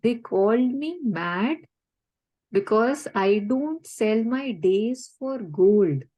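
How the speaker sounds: slow, deliberate quoting of a poet; slow recited quote. Retold or imitated. Guest quoting Khalil Gibran to host, slow and deliberate. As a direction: savour each word as you quote. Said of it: "He says that".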